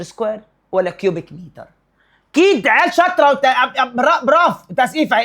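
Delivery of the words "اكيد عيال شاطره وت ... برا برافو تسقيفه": excited praise. Real, not acted. Teacher praising students' answer.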